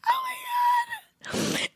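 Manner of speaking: high, slow, strangled mock cry; hammed-up sobbing oh my god; anguished wail. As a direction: wail it like a wounded child. Retold reaction to paying taxes.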